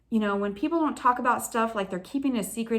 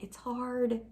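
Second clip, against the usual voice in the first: slightly higher, softer grumble; mild complaining; 4 semitones higher, 5 dB quieter than usual. Retold or imitated. Believer tells God it's hard, softly complaining. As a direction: complain gently, a child's small protest. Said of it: "Like, I'm complaining".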